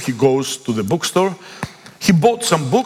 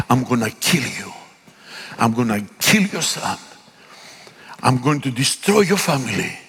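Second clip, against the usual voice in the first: menacing witch threat; 3 semitones lower than usual. Retold or imitated. Woman threatening him in story.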